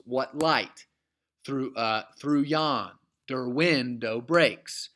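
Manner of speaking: slow scansion with weight on "light", "YON", "WIN" and "breaks"; counted-out syllables. Shown as a demonstration. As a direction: break it into feet, "through YON, der WIN, dow BREAKS". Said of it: "we have ten total syllables".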